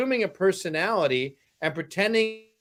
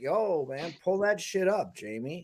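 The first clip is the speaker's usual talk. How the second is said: croaky, laid-back, low, quiet murmur; 5 dB quieter than usual. Describing how Joe Rogan talks, a speaker does a quiet Joe Rogan impression. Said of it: "Joe Rogan talks quietly".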